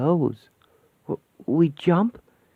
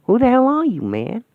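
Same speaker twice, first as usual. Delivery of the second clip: startled challenge; 10 semitones higher, 3 dB louder than usual. Acted. Startled by stranger.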